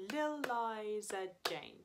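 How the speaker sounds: slow chanted Lil Liza Jane with Lil held long; rhythm demo. Shown as a demonstration. Teacher showing the class the rhythm, slow and chanted. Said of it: "it happens in this rhythm".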